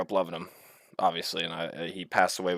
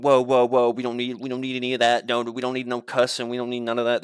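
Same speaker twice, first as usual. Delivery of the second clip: slightly raised, quick teacherly scolding; lightly voiced teacher; 3 semitones higher, faster than usual. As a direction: imitate a teacher stepping in to stop cussing. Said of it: "Teachers are like".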